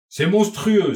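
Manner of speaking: high, loud exclamation of outrage; acted horrified outburst, pitched well up; shocked outcry. A narrator's reading. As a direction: cry out, scandalised. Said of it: "s'écrièrent les femmes".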